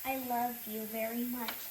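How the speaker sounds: reading a love letter. Real, not acted. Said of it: "Here's the letter I gave you".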